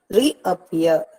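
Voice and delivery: "Reappear" with re and a light, pear stressed; stress on final syllable. Shown as a demonstration. Teacher showing stress pattern, "Reappear" stressed at the end. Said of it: "appear is stressed".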